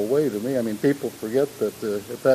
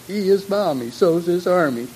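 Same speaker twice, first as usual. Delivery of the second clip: high, loud Cockney chant; Cockney accent; 8 semitones higher, 5 dB louder than usual. Retold or imitated. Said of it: "Cockney accent".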